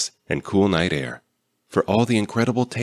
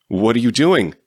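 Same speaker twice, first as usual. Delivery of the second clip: sharp, louder demand; 5 semitones higher, 5 dB louder than usual. A narrator's reading. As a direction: demand an answer, alarmed. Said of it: "he demanded".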